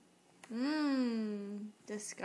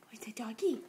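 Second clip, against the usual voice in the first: breathy hushed question; whispering. Real, not acted. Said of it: "asking toddler, whispered then said".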